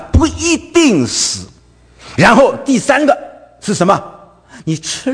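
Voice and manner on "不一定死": sly Satan. Retold or imitated. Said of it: "模棱两可的啊".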